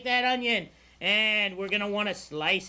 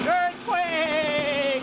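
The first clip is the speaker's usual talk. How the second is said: mock alarm; 7 semitones higher, 4 dB louder than usual. Food processor roaring, mock alarm.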